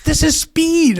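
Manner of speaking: gruff sergeant. Retold or imitated. Sergeant telling the officer what the pills are, loud and blunt. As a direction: slam it down like a busted sergeant. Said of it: "he's kind of a gruff guy".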